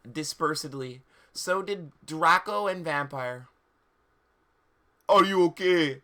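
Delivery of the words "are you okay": overdone tender question; mock concerned boyfriend. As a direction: ask it like a swooning goth boy. Vampire voiced concerned.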